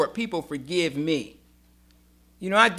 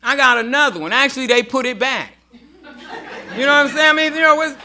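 laughing; 7 semitones higher, 7 dB louder than usual. Real, not acted. Joking about surgeries.

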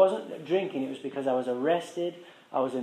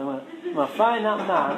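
laughing repeat; 6 semitones higher than usual. Real, not acted. Repeating his bridge vow to the audience, laughing.

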